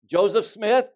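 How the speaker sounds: loud, high roll-call shout; calling out a name. Acted. Preacher calling the dead founders' roll, loud and high. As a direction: call the name out across the graveyard.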